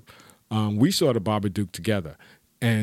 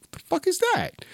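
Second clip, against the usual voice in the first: laughing. Retold or imitated. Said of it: "Like, laughing".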